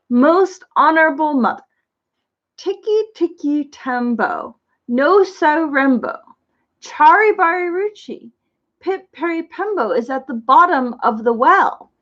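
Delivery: slow, careful, each name syllable laid out; very slowly. Acted. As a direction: take the long name slowly so it comes out right. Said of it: "said very slowly".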